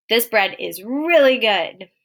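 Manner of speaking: slow, emphatic enthusiasm; excited. Shown as a demonstration. Teacher rereading the excited statement for students, excited. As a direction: stretch it out with relish. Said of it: "it's a really excited statement".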